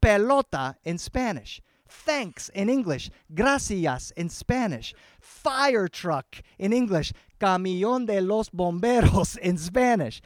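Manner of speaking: slow, measured word-by-word comparison; counting syllables. Shown as a demonstration. Father comparing English and Spanish syllables, slow and deliberate. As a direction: draw out each word to show its length. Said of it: "I would count up the syllables".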